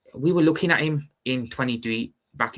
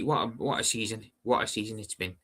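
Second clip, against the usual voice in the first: sarcastic; 4 dB quieter than usual. Real, not acted. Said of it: "I mean that in a sarcastic way".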